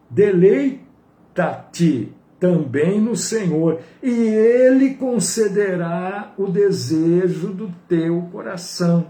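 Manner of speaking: loud, drawn-out Bible verse reading; emphatic, measured psalm reading; scripture reading. Acted. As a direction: proclaim the verse, stretching the words. Reads the psalm verse aloud.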